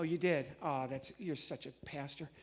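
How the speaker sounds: normal talking voice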